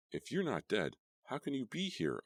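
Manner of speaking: high frantic questioning; frightened demand. A narrator's reading. Diane confronting the ghost, high and frantic. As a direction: demand an answer in panic. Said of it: "I demanded".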